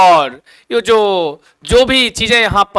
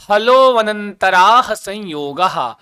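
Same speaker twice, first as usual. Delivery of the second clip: slow, drawn-out recitation of the sutra; slower than usual. Shown as a demonstration. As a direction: stretch the long syllables for learners to repeat. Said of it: "ये बोलते रहिएगा". (धीरे, खींचकर सूत्र-पाठ)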